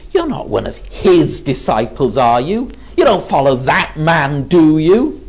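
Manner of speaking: lightly mocking, with leaning tag questions. Servant girl questioning Peter about being a disciple, mildly mocking. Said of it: "in that mocking way".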